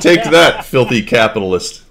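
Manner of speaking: put-on loud, high Russian accent boast. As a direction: shout it like a proud comrade. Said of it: "That's as good as my Russian accent gets".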